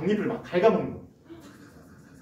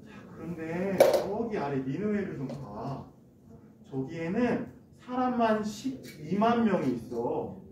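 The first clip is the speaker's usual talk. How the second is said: slow, softer fatherly voice; God speaking gently; 4 dB quieter, slower than usual. Acted. God calmly teaching Jonah on the hill, slow and gently soft. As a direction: gently reason with a sulking child. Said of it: "이렇게 말씀하셨어요".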